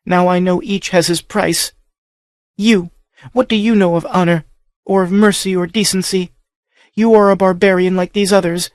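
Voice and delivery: high, bitter whispered rage; hushed fury. A narrator's reading. Captive girl berating the barbarian, whispered rage. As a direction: scorn him without raising the voice. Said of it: "screamed in a ghastly whisper".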